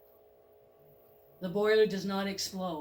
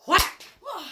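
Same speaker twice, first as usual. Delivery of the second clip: much louder sharp impact word; loud whack; 10 semitones higher, 8 dB louder than usual. Pretend. Narrator voices the Reaper's hit, loud. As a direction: slam it out like a blow.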